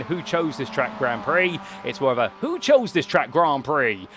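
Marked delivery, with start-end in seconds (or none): 2.4-4.1 slow, lightly twanged American drawl on the quote; a hammed-up hint of an American twang, drawn out slow. Commentator mimicking a sim racer's American twang, slow and lightly twanged. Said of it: "thrown a little bit of twang into it".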